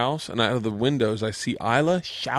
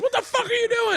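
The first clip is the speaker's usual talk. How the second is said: high mock dad yelling; squeaky incredulous dad; imitating a shocked dad. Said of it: "He goes".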